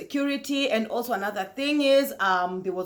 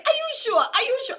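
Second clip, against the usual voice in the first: doubting friends. Retold or imitated. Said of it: "guys were like".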